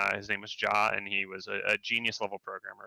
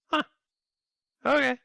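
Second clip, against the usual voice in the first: bemused; 5 dB louder, faster than usual. Retold or imitated. Reacting to coworker not going home.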